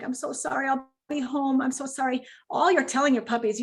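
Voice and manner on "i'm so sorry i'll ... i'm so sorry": apologetic owner. Retold or imitated. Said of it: "you're like".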